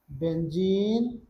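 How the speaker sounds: बेंजीन stretched out, very slow and clear; slow teacher's enunciation of बेंजीन; slow drawn-out name. Shown as a demonstration. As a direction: draw out बेंजीन slowly for students to follow. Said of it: "क्या क्या नाम बोले?".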